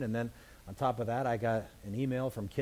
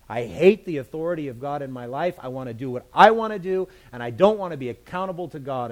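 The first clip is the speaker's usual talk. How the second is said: defiant rebel; 7 dB louder than usual. Acted. Preacher voices rebellious people.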